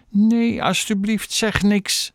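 high-pitched, anxious begging; pleading. A narrator's reading. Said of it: "smeekte Chloe". (smekend, met hoge stem)

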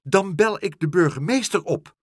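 high, loud threat; calling out. A narrator's reading. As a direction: call out the threat indignantly. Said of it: "riep ze".

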